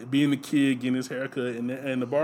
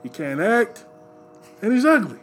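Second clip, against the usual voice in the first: put-on loud, high old Jewish man grumble; 6 semitones higher, 4 dB louder, slower than usual. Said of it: "in the Jewish voice".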